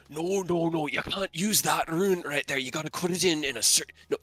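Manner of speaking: put-on low, gruff old gnome; deep gruff voice. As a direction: growl it like a gruff old mentor. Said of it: "you hear the deep, gruff voice".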